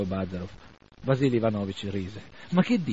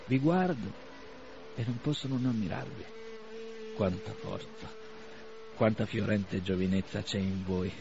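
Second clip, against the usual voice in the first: softer, tender admiration; lightly voiced admiring old man; 5 dB quieter than usual. Old doctor admiring the young men, softly tender. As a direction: marvel at their youth.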